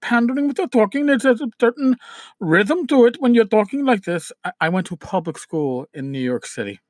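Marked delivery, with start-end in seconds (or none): 0.0-4.3 Indian accent. Shown as a demonstration. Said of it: "the Indian accent where the people talk like this".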